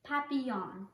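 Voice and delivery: papillon said the French way, pa-pee-YON with a nasal end; French pronunciation. Shown as a demonstration. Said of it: "You say it like this".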